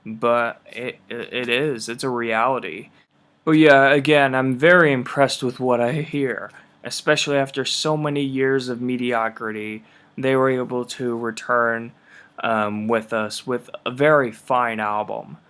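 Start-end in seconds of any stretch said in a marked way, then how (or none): 3.4-15.4 hoarse, rough throat from smog; raspy voice. Real, not acted. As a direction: talk through a raspy, worn-out throat. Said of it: "forgive my raspy voice".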